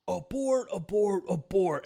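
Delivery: mock radio call, high and tense; retold urgent radio abort.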